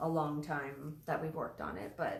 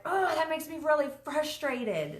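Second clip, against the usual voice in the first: put-on high child's voice, higher pitch; imitating her son; 8 semitones higher than usual. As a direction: play the six-year-old naming his frustration. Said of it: "he was like".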